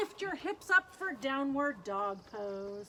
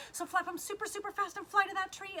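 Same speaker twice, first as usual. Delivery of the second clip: put-on higher, excited cheer to young kids; playful urging; 7 semitones higher, faster than usual. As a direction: urge little ones to flap super fast, pitched up. Urging kids to flap fast.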